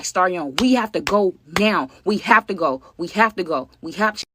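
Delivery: mock panicked yelling, pulling someone away; retold frantic yelling. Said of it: "She's just screaming".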